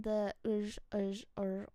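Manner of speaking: "ž" as a voiced zh, "r" after it; Slavic sounds. Shown as a demonstration. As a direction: sound out "ž" and "r" one by one. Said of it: "all the sounds".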